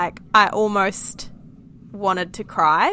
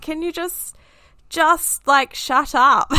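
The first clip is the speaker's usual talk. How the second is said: higher, louder mock exasperated snap; pretend scream back; 7 semitones higher, 4 dB louder, slower than usual. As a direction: act out the yell you held back at your toddler. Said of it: "wanted to scream back at her".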